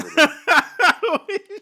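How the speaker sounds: breaking into high laughter mid-sentence; words dissolving into a laugh. Real, not acted. Giggling at her own joke to the cohost.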